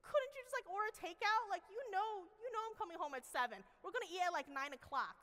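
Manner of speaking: high, loud, put-upon whine at the family; exasperated complaint. Retold or imitated. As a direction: complain like a tired mom fed up with waiting. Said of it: "I'm like".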